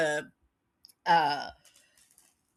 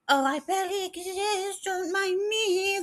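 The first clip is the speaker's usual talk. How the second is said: high, put-on aloof kitty voice; voicing the cat; 12 semitones higher than usual. Owner voicing her cat's aloof phase, high pretend kitty voice. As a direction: play a cat pretending not to care, slow and high.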